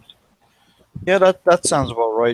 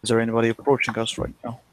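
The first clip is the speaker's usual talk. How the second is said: a quicker, clearer repeat of is there anybody approaching us right now; repeated faster for a mishearing friend; faster than usual. Real, not acted. Player repeating the question to the GM, faster. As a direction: say it again faster so they catch it. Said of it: "Anybody what?".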